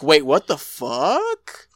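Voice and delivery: drawn-out shocked wait what; stunned, stretching each word; slow shocked disbelief. Retold or imitated. Mindy's shocked quote.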